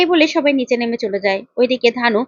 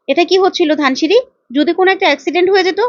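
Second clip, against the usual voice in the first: higher, fast, worried telling-off; alarmed scolding; 4 semitones higher, faster than usual. Acted. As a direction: scold her out of fright, speeding up. Aditya scolds Dhanu after rescue. (আতঙ্কিত বকুনি, দ্রুত আর উঁচু গলায়)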